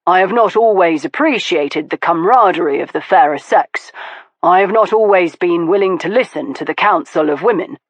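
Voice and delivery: lightly voiced man, thoughtful; Stoker, musing. Stoker musing to Veronica, thoughtful. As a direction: think it through aloud.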